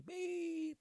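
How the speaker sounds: mock car horn beep. Imitating the car horn behind.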